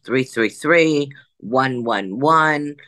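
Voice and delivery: slow, spaced-out numbers, each one weighted; counting out special numbers slowly; slow emphatic numbers. Real, not acted. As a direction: lay out each digit deliberately. Stressing her special numbers.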